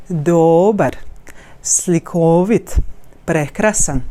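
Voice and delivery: "Dobar, slikovit, prekrasan" with all vowels clear, one in each word stronger; wave-like articulation. Shown as a demonstration. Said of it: "one of the vowel is more articulative than others".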